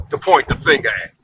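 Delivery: punchline broken by a laugh. Real, not acted. Comedian landing the punchline to the boss, laughing. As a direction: laugh through the last words.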